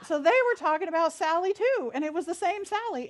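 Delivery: laughing out the words, high and loud; can't hold back the laugh at the coincidence. Real, not acted. Telling the congregation about the same Sally, laughing.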